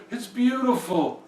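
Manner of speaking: high, drawn-out delight; awed king. A narrator's reading. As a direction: marvel slowly at the view. King marvels high in the sky.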